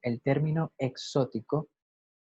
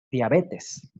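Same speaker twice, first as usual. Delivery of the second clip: diabetes said slowly and carefully, ending in -es; correct word. Shown as a demonstration. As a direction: spell out diabetes clearly. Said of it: "la enfermedad es".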